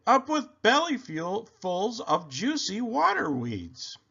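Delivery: high singsong hooted chant; happy duckbill cheer; hooting. A narrator's reading. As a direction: hoot the slogan with delight, up high. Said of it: "And they hooted".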